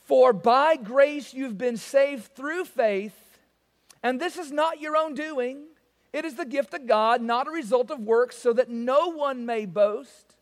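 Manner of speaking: slow, solemn reading of the verses; scripture reading. Acted. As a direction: read the Word with reverence.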